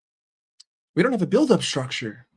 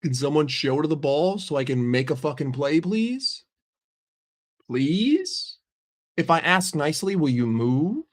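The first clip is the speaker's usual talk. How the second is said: acted angry frustration. Player pleading with teammates to move, sarcastically frustrated. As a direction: beg with mock politeness, fed up. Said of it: "he's getting angry because he's like".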